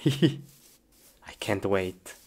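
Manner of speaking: slow excited whisper. Real, not acted. Kid gamer whispering to himself before playing, excited whisper. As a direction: whisper it to yourself, barely holding in glee.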